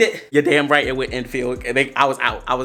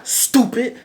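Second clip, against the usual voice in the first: muttered insult; 9 semitones higher than usual. Retold or imitated. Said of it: "So I was like".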